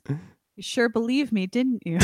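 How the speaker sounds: slow, laughing mock-sad line; a pitiful little kid pretending to be sad; saddest voice. Quoting Charlie to a friend, a laughing mock-sad line. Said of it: "in the saddest voice".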